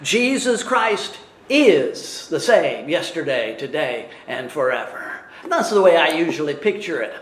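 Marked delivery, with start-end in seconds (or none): 0.0-5.2 is stressed, voice falling low on today and forever; stress on IS after Christ. Shown as a demonstration. Preacher showing the commentators' reading with the verb after Christ. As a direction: give is the weight, then settle down. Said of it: "put the verb after Christ".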